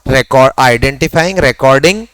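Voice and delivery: Record and identifying said slowly, each word stressed; teacher stressing the key steps so students remember; heavy emphasis. Shown as a demonstration. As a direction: lean hard on identifying and recording. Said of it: "जोर डाल के सबको बोल रहा हूं".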